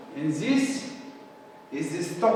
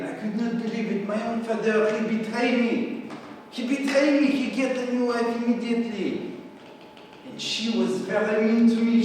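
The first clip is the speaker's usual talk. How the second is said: higher-pitched, wounded disbelief; shocked, hurt; 5 semitones higher than usual. Acted. Louis recalls his father's betrayal, acted hurt shock. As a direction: build the indignation on the repeated accusation.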